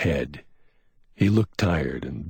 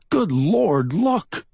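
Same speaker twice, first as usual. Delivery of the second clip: sudden high startled cry; gasping in surprise; 14 semitones higher, 5 dB louder, much slower than usual. A narrator's reading. McMain spots a gem among the glass, startled gasp. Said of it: "McMain gasped".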